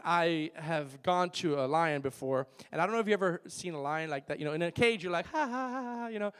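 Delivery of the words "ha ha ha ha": mimicked zoo reaction. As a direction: imitate a string of breathy-light ha's. Imitates people facing caged lion.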